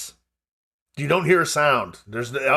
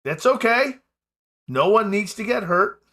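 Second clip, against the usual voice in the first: robber woman voice; 6 semitones higher than usual. Acted.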